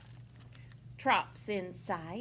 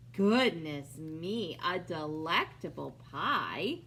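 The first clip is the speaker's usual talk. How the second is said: lightly voiced bear; 6 semitones lower, 5 dB louder than usual.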